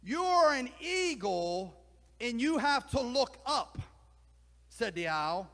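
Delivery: exasperated, then sink into a hushed send-off; exasperated owl. Acted. Owl urges the eagle to look up, exasperated and loud. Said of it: "The owl clucked in exasperation".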